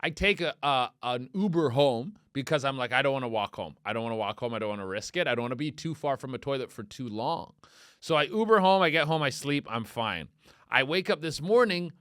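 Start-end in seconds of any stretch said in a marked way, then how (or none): 2.9-7.5 muted worry. Retold or imitated. Retold worried self-talk.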